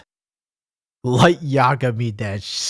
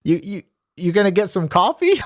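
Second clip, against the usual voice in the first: passive aggressive teacher; 4 semitones higher than usual. Retold or imitated. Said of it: "passive aggressive, he'd be like".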